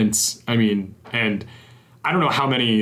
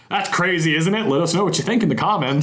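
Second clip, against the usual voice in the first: mock lazy blogger; 5 semitones higher than usual. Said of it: "at the end you go".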